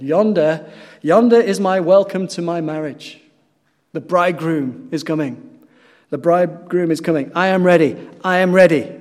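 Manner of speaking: loud, joyful cry from the scaffold; ringing shout of a man ready to die; triumphant shout. Retold or imitated. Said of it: "he shouted".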